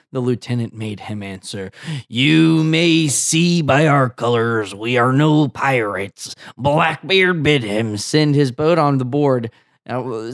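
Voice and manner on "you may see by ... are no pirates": pirate voice. Acted. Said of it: "They both have the same voice".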